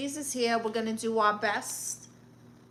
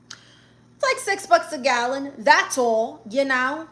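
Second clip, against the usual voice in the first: higher, louder mock-casual repeat; sarcastic emphasis; 3 semitones higher, 5 dB louder than usual. Real, not acted. Aunt telling viewers about California gas prices, loudly sarcastic. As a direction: toss it off as if it were nothing.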